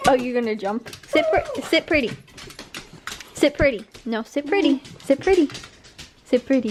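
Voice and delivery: high, sing-song pet coaxing; talking to a dog. Real, not acted. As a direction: coax the dog into a trick. Coaxing dogs to do a trick.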